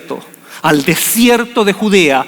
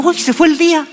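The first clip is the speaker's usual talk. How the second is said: high, surprised sigh at the lost day; a lightly acted "where did it go"; mock dismay; 8 semitones higher than usual. Someone noticing the day vanished, mock surprise. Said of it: "tenemos la sensación".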